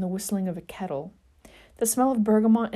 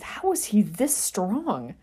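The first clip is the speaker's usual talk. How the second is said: through gritted teeth; 3 semitones higher, slower than usual. Acted. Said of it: "wondered aloud through gritted teeth".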